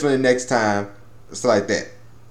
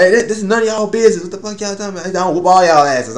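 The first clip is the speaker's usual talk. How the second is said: mock angry; 6 semitones higher than usual. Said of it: "Jin gets pissed".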